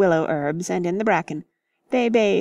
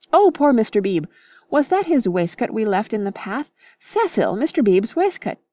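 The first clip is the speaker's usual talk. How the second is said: dismayed; 3 semitones higher than usual. Acted. Missus Honeychurch dismayed.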